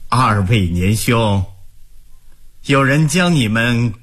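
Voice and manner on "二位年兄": word by word. Acted. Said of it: "一字一顿地说".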